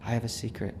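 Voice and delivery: soft, retold child's confiding hush; stage whisper. Young son answers his mother's question, soft mock stage whisper. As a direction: imitate a little boy letting someone in on something. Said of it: "said in a stage whisper".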